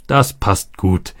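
slow, contented approval; pleased. A narrator's reading. Roberto delighted with the plan, slow and pleased. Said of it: "freute sich Roberto".

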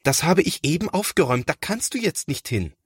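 put-on high, fast protesting boy's voice; lightly voiced flustered boy; hurried older brother. A narrator's reading. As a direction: rush to stop him. Thomas stops brother, flustered.

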